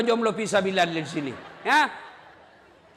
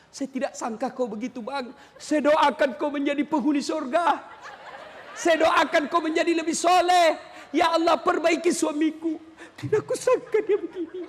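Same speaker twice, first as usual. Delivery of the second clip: praying while upset; 5 semitones higher than usual. Acted. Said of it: "marah sambil berdoa".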